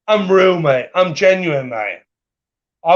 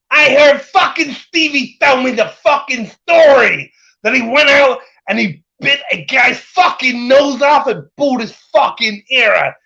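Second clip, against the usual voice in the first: higher-pitched mocking impersonation; mock rant; 4 semitones higher than usual. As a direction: quote him in an indignant, raised voice. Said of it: "for Tony to say".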